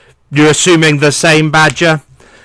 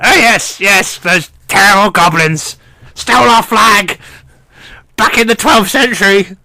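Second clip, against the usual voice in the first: put-on high, reedy old gnome voice, henpecked; old gnome mishearing superior as wife, high and fretful; old gnome lord; 5 semitones higher than usual. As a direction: whine it up high like a fussy old lord avoiding his wife. Gnome complains about goblins.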